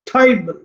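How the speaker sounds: "tribal" with TRI punched, "bal" falling; stress on first syllable. Shown as a demonstration. Teacher giving an example word, first syllable stressed. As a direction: land hard on TRI in "tribal". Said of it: "पहले वाले सारे stress हैं".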